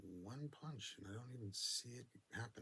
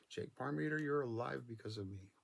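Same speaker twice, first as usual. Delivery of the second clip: proud shout; 5 semitones higher, 7 dB louder than usual. Retold or imitated. Telling friend he saved him.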